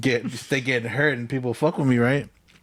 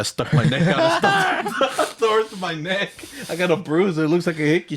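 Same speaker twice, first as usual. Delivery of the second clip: 1 mock pleading excuse; 8 semitones higher than usual. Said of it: "I was like".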